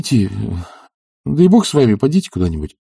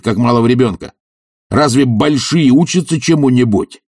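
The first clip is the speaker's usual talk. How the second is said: higher, mocking and blustering; a brash bully's derisive rant; Tarantyev's scornful voice; 4 semitones higher than usual. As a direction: sneer at the idea of study.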